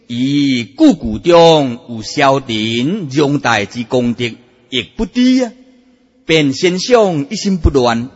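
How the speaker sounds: slow, drawn-out formal reading; measured, declaimed scripture-style reading; classical text recitation. Acted. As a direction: intone the old master's words with long syllables. Reads out a master's classical saying.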